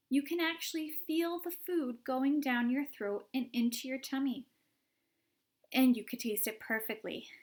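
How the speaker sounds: bright, rising praise for the magic gum; eager Wonka. Acted. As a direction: sell the wonder of it, ending in a whisper. Wonka enthusing about the gum.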